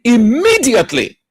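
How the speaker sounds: IMMEDIATELY stressed high, as the key word; emphatic stress. Real, not acted. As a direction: underline IMMEDIATELY with your voice. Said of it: "Underline the word immediately".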